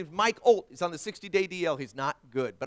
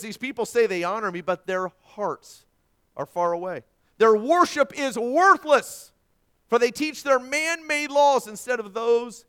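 loud, raised-pitch scripture proclamation; emphatic preaching; 8 semitones higher, 10 dB louder than usual. Real, not acted. Preacher quoting Jesus to his congregation, emphatic preaching. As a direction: preach the verse with rising force.

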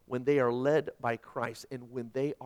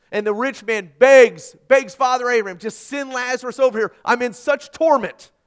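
full-force preaching; 3 semitones higher, 10 dB louder than usual. Acted. Pastor preaching missions to his church, loud and impassioned. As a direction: build the sermon to a passionate peak.

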